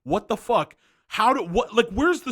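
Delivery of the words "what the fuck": normal talking voice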